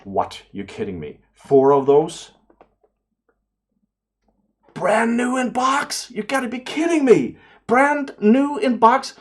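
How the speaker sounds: high, slow squeal of disbelief at a find; shrieking in amazed delight over a bargain; excited disbelief. Retold or imitated. YouTuber at the flea market, squealing in disbelief. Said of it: "I was thinking".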